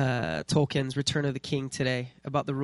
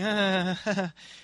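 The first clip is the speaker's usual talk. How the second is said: higher, forced uneasy laugh; awkward mock laugh; 6 semitones higher, 3 dB louder than usual. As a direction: laugh uncomfortably as if dodging an invitation. Mimics awkward reaction to the email.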